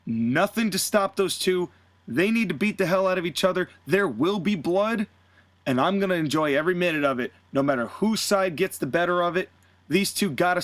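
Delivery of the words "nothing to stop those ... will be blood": lightly mimicked boss announcing the match; announcer hype. Announcing a street fight.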